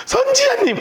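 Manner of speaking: very high, pleading cry; a desperate mother calling out to the prophet; high-pitched plea. Acted. Woman clutching prophet's feet.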